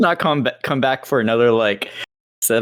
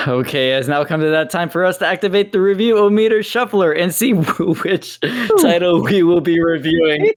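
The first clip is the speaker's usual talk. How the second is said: giggling while announcing; trying not to laugh; laughing through it; 3 semitones higher than usual. Real, not acted. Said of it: "Why are you laughing?".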